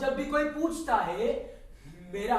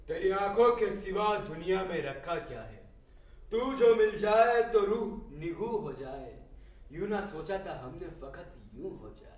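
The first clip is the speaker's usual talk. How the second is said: poetic recitation; 3 semitones lower than usual. Acted. Tea seller woos Sakina with verse, measured poetic recital. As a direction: recite it as a romantic couplet. Recites a love couplet to her.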